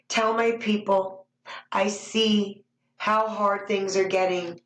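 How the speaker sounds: solemn, measured prophecy reading; prophetic message. Acted. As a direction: speak as the Lord to his people. Delivers prophecy as God's voice.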